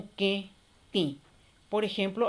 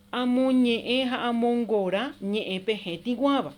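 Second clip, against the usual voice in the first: slow exercise read. Shown as a demonstration. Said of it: "Dice así nuestro primer ejercicio".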